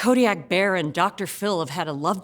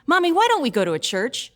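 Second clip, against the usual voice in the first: put-on slightly higher little-kid question; lightly voiced six-year-old asking Mommy; child asking mom; 5 semitones higher than usual. Child asking her mother.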